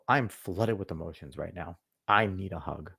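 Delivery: mock needy whine. Mocking a guy who asks his girlfriend for a hug, quiet and whiny. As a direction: mimic a guy begging for comfort.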